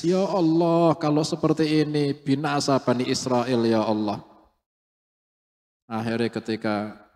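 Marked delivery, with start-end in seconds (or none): 0.0-4.2 a loud, higher tearful plea to God; crying prayer. Acted. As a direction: cry out to God, half weeping. (doa sambil menangis dengan suara keras)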